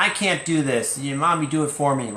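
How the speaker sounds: lightly voiced child in a fluster; stressed child. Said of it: "suddenly they're like". (imitating an overwhelmed child)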